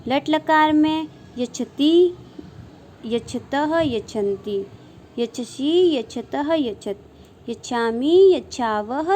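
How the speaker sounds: sing-song drill reciting verb forms; rhythmic paradigm recitation. Shown as a demonstration. Sanskrit teacher drilling students on verb forms, rhythmic sing-song recitation. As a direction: chant each form in sets of three, rising then falling.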